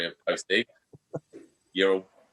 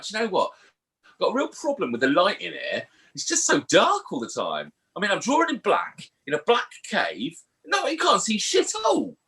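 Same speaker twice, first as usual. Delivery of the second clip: high, pitched-up complaining cave artist; whiny cave painter; 8 semitones higher than usual. Pretend. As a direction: moan like a caveman struggling to see in the dark. Cave painter complaining, acted quote.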